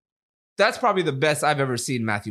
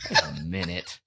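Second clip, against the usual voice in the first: lower, a laugh with a catch of tears; laughing and tearing up; 11 semitones lower, 4 dB quieter than usual. Retold or imitated. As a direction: laugh through welling tears. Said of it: "There's no way I'm crying".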